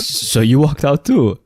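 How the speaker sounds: high, slow mock surprise; surprised. Real, not acted. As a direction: ask it in surprise.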